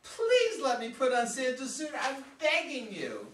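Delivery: begging. Acted. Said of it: "Beg me".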